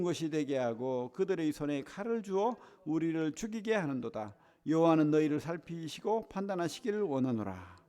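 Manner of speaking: steady, measured Bible reading aloud; scripture reading. Acted. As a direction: read the verse with the congregation, evenly. Congregation reads scripture aloud.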